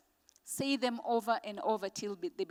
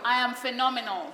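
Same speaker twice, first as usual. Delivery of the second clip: with conviction; 2 semitones higher, 5 dB louder than usual. Shown as a demonstration. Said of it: "Please say this with conviction".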